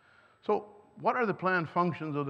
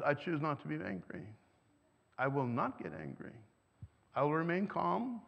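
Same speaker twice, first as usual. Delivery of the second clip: calm resolve; 2 semitones lower, 6 dB quieter than usual. Retold or imitated. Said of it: "A thermostat says".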